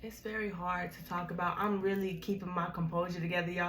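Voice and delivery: holding back tears. Real, not acted. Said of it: "I'm really trying not to cry".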